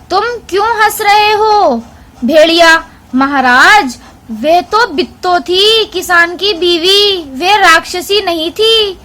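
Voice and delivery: lightly voiced animal talk, read aloud; lion and wolf dialogue. Teacher reads a lion–wolf talk to her class.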